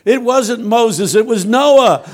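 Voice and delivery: high, slow, loud prophetic proclamation; mock prophetess. A church woman stands up to prophesy, in a high, slow, loud voice. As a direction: intone it like a self-styled prophetess, drawn out. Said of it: "she stood up again and said".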